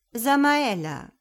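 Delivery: slow, drawn-out name call; mild, coaxing address; gentle. Acted. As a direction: gently invite her to speak. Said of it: "sagt Gott sanft".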